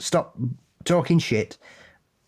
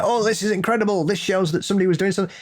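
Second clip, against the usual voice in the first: mock excitement; 6 semitones higher, faster than usual. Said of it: "And they're like".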